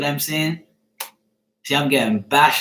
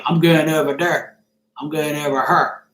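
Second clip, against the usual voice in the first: demonstrated Bermudian dialect; Bermudian accent. Shown as a demonstration. Showing how other Bermudians talk, Bermudian accent. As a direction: say it as broken-English Bermudian talk. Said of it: "Like, Bermudians say".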